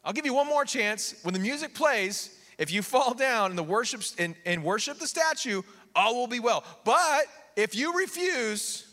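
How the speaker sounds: lightly acted ruler laying down terms; kingly ultimatum. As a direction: stretch out the final condition as a threat. King acted giving an ultimatum.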